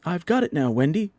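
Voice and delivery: high, loud triumphant cry; excited cry. A narrator's reading. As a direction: shout out his success. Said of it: "cried John".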